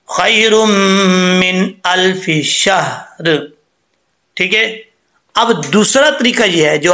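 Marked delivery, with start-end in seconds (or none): 0.1-3.5 slow, melodic tajweed recitation; Quranic recitation. Shown as a demonstration. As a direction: chant it slowly like a recitation. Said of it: "इसको सही पढ़ने के लिए क्या है?". (धीमी तिलावत के अंदाज़ में)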